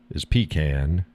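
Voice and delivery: "pecan" as PEE-can; "pecan" with long ee and flat a, rising; "pecan" PEE-kan; pronunciation demo. Shown as a demonstration. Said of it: "How do you pronounce it".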